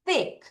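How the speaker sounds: "thick" with TH between Korean ㅆ and ㄸ; short "thick" with a careful TH; TH pronunciation demo. Shown as a demonstration. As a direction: model "thick" with the tongue slipping out for TH. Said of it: "쌍쇼과 쌍디귿의 중간 발음입니다".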